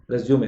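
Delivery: रिज्यूमे repeated as "rez-yo-may"; correct pronunciation. Shown as a demonstration. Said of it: "तो आज से बोलेंगे रिज्यूमे".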